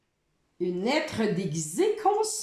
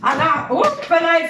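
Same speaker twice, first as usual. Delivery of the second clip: lively hop-là; 6 semitones higher, 6 dB louder than usual. Acted. Teacher animating the game for child.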